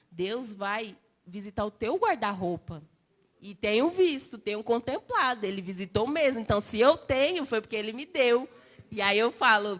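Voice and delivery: loud, driving testimony voice; fervent preaching. Real, not acted. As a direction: preach it out, full of conviction. Testifies at full force.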